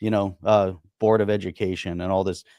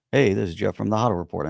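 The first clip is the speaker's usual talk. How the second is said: podcast intro; faster than usual. Retold or imitated. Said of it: "my first podcast was the Huddle Report".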